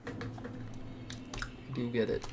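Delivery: slow breathy whisper. Real, not acted. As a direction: whisper it to yourself slowly. Repeats 'I get it' softly.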